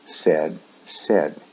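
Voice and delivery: "said" with a short eh vowel. Shown as a demonstration. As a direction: say "said" to rhyme with "bed". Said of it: "The pronunciation is a short E sound".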